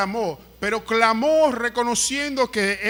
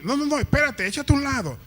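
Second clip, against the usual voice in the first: brushing someone off; 5 semitones higher, faster than usual. Acted. Lambones bloqueando a quien se acerca.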